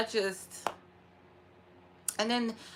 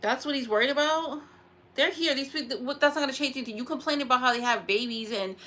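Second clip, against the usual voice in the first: real irritated rant, mostly higher; indignant, worked-up venting; mad; 3 semitones higher than usual. Real, not acted. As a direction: fire off exasperated rhetorical questions. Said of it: "I was so mad".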